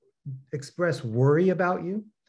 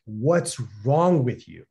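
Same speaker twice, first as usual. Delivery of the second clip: concerned friend; 3 semitones lower, slower than usual. Retold or imitated. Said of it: "she pulled me aside and she was like".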